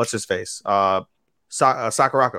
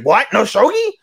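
high, incredulous rising questions; mock dismay; 12 semitones higher, 6 dB louder than usual. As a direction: play up the disbelief in a high voice. Acting her dismay at skipping shogi.

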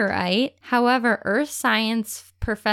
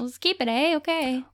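put-on Canadian accent; 3 semitones higher than usual. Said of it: "Those Canadian sisters are like".

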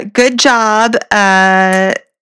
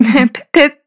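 put-on British accent; 6 semitones higher than usual. Mocking British phrases.

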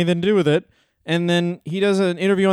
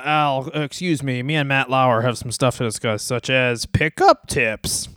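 mock Vince; 3 semitones lower than usual. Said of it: "And then he was like".

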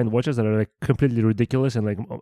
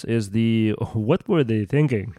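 slow, drawn-out with an East Asian lilt; East Asian accent; 3 semitones lower, 3 dB quieter, much slower than usual. Real, not acted. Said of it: "Why do you sound very Asian when you said that right now?".

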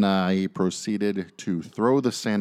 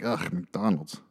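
a disappointed inner grumble; disgusted; slower than usual. Retold or imitated. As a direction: drag out the ugh with distaste. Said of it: "I'd be like".

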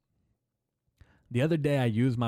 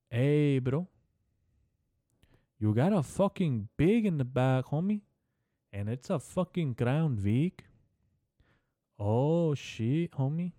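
a hammed-up Cholo accent pitched higher, swinging up on homie; 4 semitones higher, slower than usual. Comedian trying out a Cholo accent on a podcast, hammed-up Cholo accent. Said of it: "Let me try".

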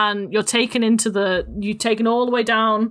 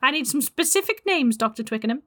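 witchy voice; 4 dB louder than usual. Acted.

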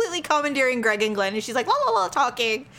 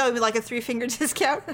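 puzzled question breaking into a laugh; faster than usual. Retold or imitated. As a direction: ask it half-confused, then laugh through discount. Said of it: "He goes".

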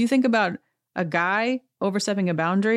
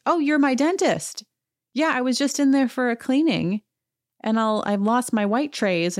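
higher-pitched act of spotting a familiar face; mock delighted recognition, easing down; retold surprised recognition; 6 semitones higher than usual. Woman realizing the man hitting on her is her dentist, surprised recognition.

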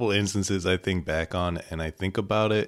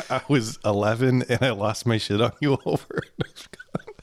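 laughing whisper; 5 semitones higher than usual. Retold or imitated. Mock apology to sister.

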